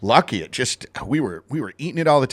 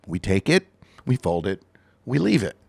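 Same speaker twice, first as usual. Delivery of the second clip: super calm; 4 semitones lower than usual. Retold or imitated. Mimicking the calm Swedish baker's soothing instructions. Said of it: "he was super calm".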